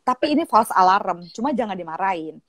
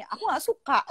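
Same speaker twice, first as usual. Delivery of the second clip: imitated child's whine, higher pitched; complaining daughter; 4 semitones higher, 4 dB quieter than usual. Daughter tells mother she dislikes it, imitated high whine. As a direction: whine it lightly like a schoolgirl. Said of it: "dia bilang gitu".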